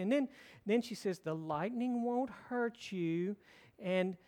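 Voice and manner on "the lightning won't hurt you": slow, lightly imitated child's reassurance; sweet little girl. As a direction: draw it out sweetly, a touch of small child. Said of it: "beautiful little voice".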